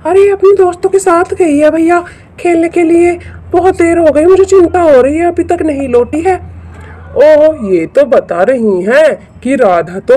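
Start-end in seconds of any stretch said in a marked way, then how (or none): 0.1-6.3 worried mother. Acted. Narrator voices Radha's worried mother.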